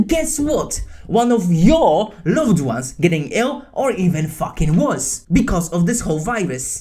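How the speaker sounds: real anger at misinformation spreaders; angry rant. Real, not acted. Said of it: "getting emotional and angry".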